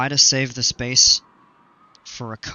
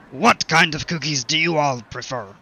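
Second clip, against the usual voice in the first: pirate voice; 3 semitones higher than usual. Pretend. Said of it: "stupid with the pirate voice".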